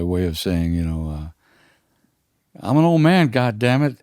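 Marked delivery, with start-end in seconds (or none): 2.6-4.0 put-on a cranky old man insisting he's too old for this; a singer indignant. Teller imitating a singer scolding him, higher and indignant. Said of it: "pitch of his voice went up just a little bit".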